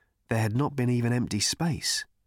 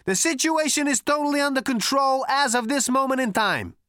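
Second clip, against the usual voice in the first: much higher, loud boastful voice; two-headed giant; 13 semitones higher, 4 dB louder than usual. A narrator's reading. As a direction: brag it like a swaggering hero. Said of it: "he cried".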